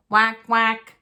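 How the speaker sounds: loud duck whack; duck call. Acted. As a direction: quack it like a duck. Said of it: "Mama Duck said".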